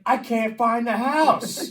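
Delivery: loud, slow exasperated shout; loud, slow retort to an angry lady; frustrated yell. Retold or imitated. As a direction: drag it out, fed up and yelling. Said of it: "I'm like".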